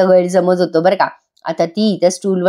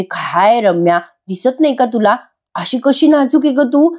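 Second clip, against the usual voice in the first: mocking taunt; 4 semitones higher than usual. Kavya mocks Ramya's fall.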